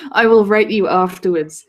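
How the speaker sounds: mock-harsh German accent. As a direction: read it out in a put-on German accent. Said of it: "Please say in your best German accent".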